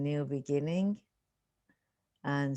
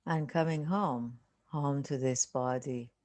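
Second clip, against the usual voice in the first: unhurried meditation guide, long silences between phrases; guided meditation. Real, not acted. Teacher settling listeners into a seated meditation, calm guiding voice. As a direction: ease them into stillness, phrase by phrase with long pauses.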